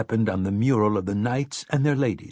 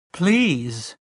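high, desperate cry; a restrained shriek of pleading; shrieked plea; 6 semitones higher than usual. A narrator's reading. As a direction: beg in a raised pitch. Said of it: "Mia shrieked".

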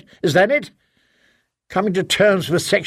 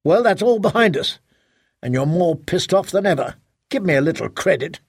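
angry husband. Acted. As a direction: throw it back at her in anger. Husband quarrels with wife.

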